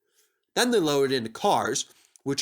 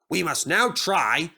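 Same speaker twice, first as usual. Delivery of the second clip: mildly cross; 3 semitones higher, slower than usual. Acted. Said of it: "said Sir Topham Hatt crossly".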